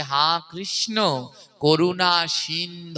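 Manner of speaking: slow "সিন্ধ" ending clipped on the consonant, no u sound; correct pronunciation. Shown as a demonstration. Preacher correcting the congregation, slow careful "সিন্ধ". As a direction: draw out "করুণা" and end on "সিন্ধ" with no vowel. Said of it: "তাই উচ্চারণ হবে".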